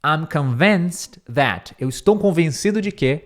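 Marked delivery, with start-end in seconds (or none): 0.0-1.8 drawn-out dictation; slow teacher read; slow model. Shown as a demonstration. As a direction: read it slowly for copying. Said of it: "Aí ele diz assim".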